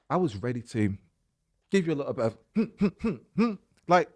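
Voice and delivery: high, loud laughing bluster; laughing while admitting she was ready to snap. Real, not acted. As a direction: laugh through the mock threat. Ready to tell customer off.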